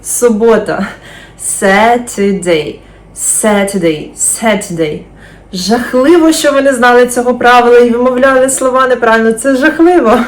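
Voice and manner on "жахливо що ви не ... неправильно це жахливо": mock horror. Mock horror at wrong pronunciation.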